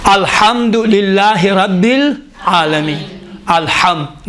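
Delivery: slow, drawn-out recitation of الحمدللہ رب العالمین; Quran recitation. Shown as a demonstration. Teacher reciting slowly as a model for students. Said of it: "کیا کرتے ہیں".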